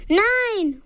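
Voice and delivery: father tries to stop Nina, alarmed cry. A narrator's reading. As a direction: stop her before she presses. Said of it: "ruft Papa".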